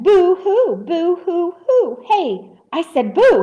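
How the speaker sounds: high, indignant story shout. A narrator's reading. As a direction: build from boo-hoo into a loud boo. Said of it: "he shouted".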